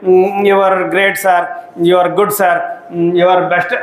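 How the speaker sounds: high, drawn-out mock English praise; mock flattery. Teacher mocks praising in English, hammed up. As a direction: ham up a stiff polite compliment. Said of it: "ఇంగ్లీష్లో అంటే".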